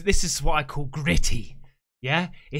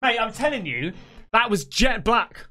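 real shock at what he saw; shocked exclaiming; 7 semitones higher, slower than usual. Real, not acted. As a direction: blurt it out, rattled and amazed. Shocked at black figure.

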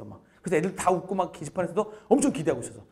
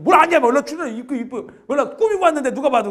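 loud, higher mock scolding; playful scolding; 8 semitones higher, 8 dB louder than usual. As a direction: call his bluff in front of class. Teacher scolding student playfully.

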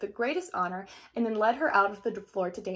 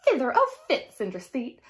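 mocking stepsisters; 6 dB louder than usual. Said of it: "burst into shrieks of laughter".

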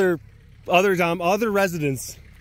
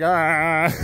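audible groan. Retold or imitated. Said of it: "I'm audibly like".

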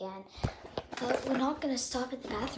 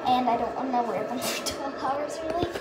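while brushing teeth. Real, not acted. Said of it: "right now brushing my teeth".

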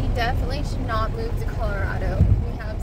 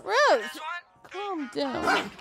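high, startled scolding cry; exasperated calling out; 5 semitones higher, much slower than usual. Real, not acted. Scolding Rose during a commotion.

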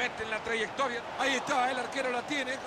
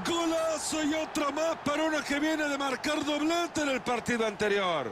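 excited goal call; 5 semitones higher than usual. Real, not acted. Otro gol cantado.

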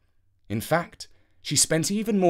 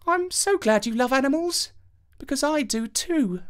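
high, sweet princess voice; 13 semitones higher than usual. Acted. Princess to Avenant in the carriage, high and sweet. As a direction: sweetly share a fondness.

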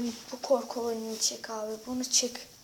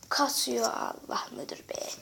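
whispered grumble; 5 dB quieter than usual. Real, not acted. Muttering about the lag.

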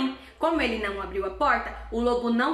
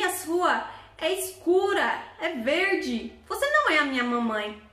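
put-on examine the paw like a sharp kid; the kid at the door catching the wolf's hairy paw; clever little goat; 3 semitones higher than usual.

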